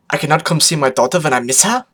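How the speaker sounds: pouting. Acted. Photo Finish justifying her visit, mildly pouting. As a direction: pout with a lift at the end. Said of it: "photo finish pouted".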